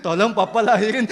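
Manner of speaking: playful, wheedling plea; mock begging. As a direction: beg papa like a child, half laughing. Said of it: "Saya nggak ngemis-ngemis".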